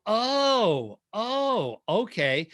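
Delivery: long, high, drawn-out "oh"; dawning realisation. Retold or imitated. Most people hearing about respect, dawning realisation. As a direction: act out the penny dropping.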